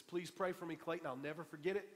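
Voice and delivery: lightly imitated Jamaican accent; a hint of Jamaican accent, near his own voice. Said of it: "in that Jamaican accent".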